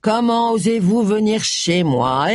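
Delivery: slow, hammed-up outrage trailing into blah-blah; mocking fake outrage; mock indignation. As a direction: pretend to be offended, sarcastically. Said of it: "je suis supposée jouer les indignés".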